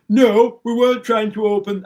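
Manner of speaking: put-on a half-hearted stab at Jess Phillips's accent, loud on "No"; failed Jess Phillips accent, quoting her denial; attempted Jess Phillips accent. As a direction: try her accent and give up fast. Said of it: "I can't even do her accent".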